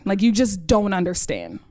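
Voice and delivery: put-on impatient teen, brushing her mom off; exasperated. Daughter insisting to her mom that she just doesn't get it. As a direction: roll your eyes at a parent who doesn't get it.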